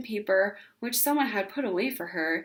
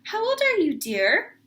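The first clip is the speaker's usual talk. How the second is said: gushing neighbor; 9 semitones higher, 5 dB louder than usual. A narrator's reading. Neighbor cooing at Ramona in a high voice. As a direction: coo at the little girl. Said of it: "asked Missus Whistler".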